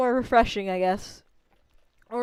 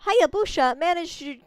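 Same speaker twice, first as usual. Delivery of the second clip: brash villager; 7 semitones higher than usual. Acted. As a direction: scoff at the little wolf. New villager character voice.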